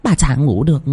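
high-pitched, annoyed scolding of a servant; irritated older mistress. A narrator's reading. Mistress scolds restless Nam and sends him for food, irritated. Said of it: "Bà hai khó chịu mà gằn giọng".

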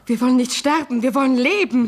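defiant insistence. Acted. Wife defies talk of dying.

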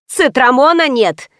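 slow, proclaimed announcement; announcing. A narrator's reading. Pharmacist announcing that stock is out, proclaiming. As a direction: declare it deliberately to the customers. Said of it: "возвестила провизорша".

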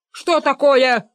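sharp shout of outrage. A narrator's reading. Benedikt shouting at his father-in-law in outrage. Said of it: "закричал Бенедикт".

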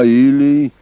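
high, loud, drawn-out challenge; shrill cry. A narrator's reading. Young lord daring the king, shrill cry. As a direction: cut in with a shrill, daring shout. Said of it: "визгливо закричал Эрнак".

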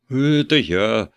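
stammering timid bleat, slow. A narrator's reading. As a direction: stutter it out, backing away in fear. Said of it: "заикаясь ... проблеял патер Йошт". (заикаясь, проблеял испуганно)

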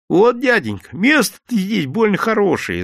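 high, wheedling ingratiating tone. A narrator's reading. Vendor flatters the yard-keeper, pitched high. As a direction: flatter to win favour. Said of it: "заискивающе произнёс мужик".

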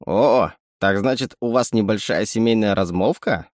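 a sly little animal sidekick; sly chittering raccoon. Acted. Raccoon speaks.

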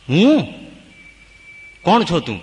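the lion shaken at seeing his own face; stunned wonder. Acted. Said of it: "આખા શરીર આમ જણજણાટી થઈ ગઈ".

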